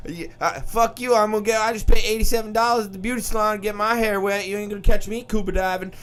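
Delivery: high, fast sassy black woman voice; black woman impression. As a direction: complain about your salon hair. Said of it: "here comes the black girl".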